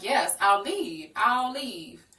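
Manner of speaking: high, loud frantic pleading; upset pleading. Retold or imitated. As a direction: beg to just leave, voice rising. Retold own desperate reply.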